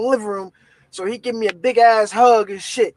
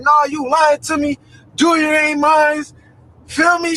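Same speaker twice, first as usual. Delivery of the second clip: angry accusation; 4 semitones higher than usual. Retold or imitated. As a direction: shout the accusation. Accusing girlfriend on phone.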